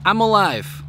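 loud, high, breathless laughter; laughing, soaked. Real, not acted. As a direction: laugh through the shock of getting wet. Just got hit by sprinklers.

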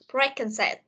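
"preconcept", three words run into one; three words linked. Shown as a demonstration. Teacher shows how three words are read, "preconcept" as one. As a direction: join beak-and-said as "preconcept". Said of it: "Ba từ này mình sẽ đọc là".

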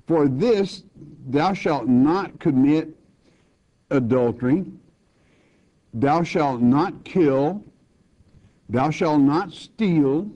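slow, deliberate scripture reading; reading the commandments. Acted. Preacher to congregation, slow solemn reading of commandments. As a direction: lay each commandment down one by one.

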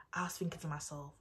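fast whisper. Real, not acted. Recalling panic at his text, whispered. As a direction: hurry it under your breath.

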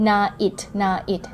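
slow night with the a and i kept distinct; vowels held apart. Shown as a demonstration. Teacher slowly repeats night, keeping its vowels apart. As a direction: stretch night slowly, a then i. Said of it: "ให้พูดยันคางต่อกัน".

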